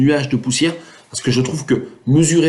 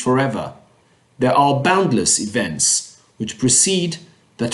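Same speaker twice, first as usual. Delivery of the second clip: measured, slow poetry reading; unhurried recital with pauses between lines; poem recitation; slower than usual. Acted. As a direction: recite the verse slowly, phrase by phrase. Reads the English poem aloud.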